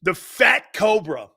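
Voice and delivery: "The Fat Cobra" called slow and loud like a ring announcer; hyped nickname. Shown as a demonstration. Host proudly proclaims the nickname, announcer style. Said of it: "Digging it".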